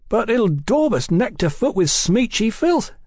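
high, aggrieved objection; put-on high voice of complaint; protesting. A narrator's reading. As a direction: protest indignantly, pitch right up. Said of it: "Brian protested".

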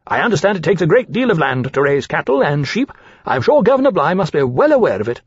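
put-on high, eager, ingratiating young dragon voice; fawning dragon Caesar. Young dragon Caesar flattering the captain, in a high ingratiating voice.

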